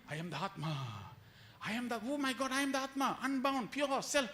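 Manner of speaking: mock epiphany of finding the self; dawning realization. Preacher acts a seeker suddenly realizing they are the Atma.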